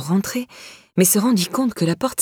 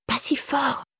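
hushed, higher-pitched urgent whisper; 6 semitones higher, 5 dB quieter, slower than usual. A narrator's reading. Irène hushing the girl at Angela's door, whispering. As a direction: shush her in a soft, raised whisper. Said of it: "chuchota Irène".

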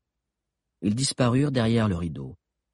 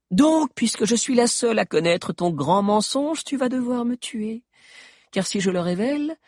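much higher witch voice, gloating; mocking witch; 11 semitones higher than usual. Queen dares Eugénor to kill her, high and mocking. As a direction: dare him to kill her, triumphant.

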